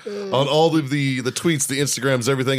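podcast ad read; advertiser mode. Acted. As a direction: slip into a sponsor plug voice. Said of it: "I just flipped into fucking advertiser mode".

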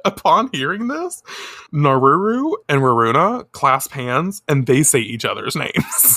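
ordinary delivery

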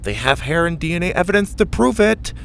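Mac's voice. A narrator's reading. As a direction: keep Mac's lisp going.

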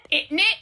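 "Isn't it" run together as "innit"; Cockney innit. Shown as a demonstration. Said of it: "That's the Cockney".

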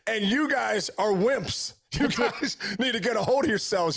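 put-on slow, laughing gruff old-school guy; mock the wimps like a tough dad; hint of a stubborn old father; tough old-timer voice. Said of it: "that generation of guys like".

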